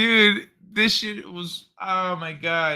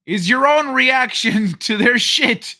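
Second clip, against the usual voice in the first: laughing mid sentence; 6 semitones higher, 7 dB louder than usual. Real, not acted. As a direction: chuckle through it.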